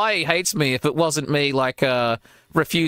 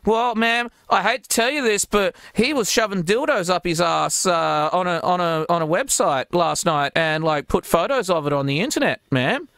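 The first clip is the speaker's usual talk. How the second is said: mock polite prank caller; 3 semitones higher than usual. Prank caller telling the mom.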